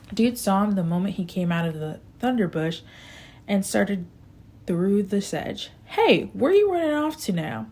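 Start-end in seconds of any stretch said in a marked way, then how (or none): 5.8-7.7 high, loud call across the field; shouted call. Acted. Dude yelling across the field at Jeter, high and loud. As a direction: yell after him as he runs off. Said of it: "Dude shouted at him".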